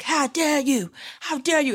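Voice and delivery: attempted Swedish accent, pitched high; mock indignation in a loose Swedish-accent imitation; Greta Thunberg. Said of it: "I can't even do her accent".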